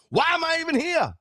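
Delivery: high put-on hopeless voice; mock despair. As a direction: play the hopeless inner whine. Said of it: "I'm just like".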